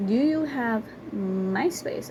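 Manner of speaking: slow, drawn-out disbelieving repeat; slow mocking repeat with a rising end; incredulous echo. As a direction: stretch each word in disbelief.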